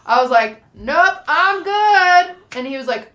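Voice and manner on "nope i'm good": dismissive. Retold or imitated. Brushing off her friend.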